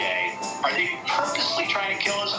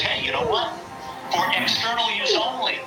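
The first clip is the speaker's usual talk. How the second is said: mocking official voice; 6 semitones higher than usual. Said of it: "the F D A that says".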